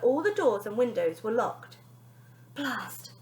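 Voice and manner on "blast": quiet frustrated curse; girl cursing quietly to herself; muttered blast. Acted. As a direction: curse under breath. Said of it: "said Bonnie to herself".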